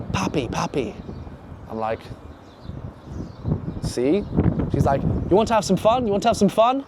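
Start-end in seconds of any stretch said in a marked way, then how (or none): 0.1-1.0 soft, hushed come-on; imitated whisper. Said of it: "one of the girls whispers in my ear". 5.0-6.8 higher-pitched coaxing question; lightly voiced girl propositioning him. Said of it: "whispers in my ear".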